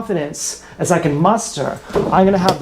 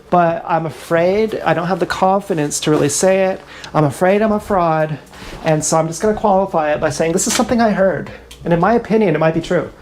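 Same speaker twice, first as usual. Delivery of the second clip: mock unsure hedging; faster than usual. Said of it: "when you say".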